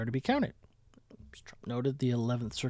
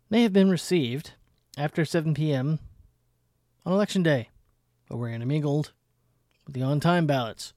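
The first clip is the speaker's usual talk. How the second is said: mock outrage; 3 dB louder than usual.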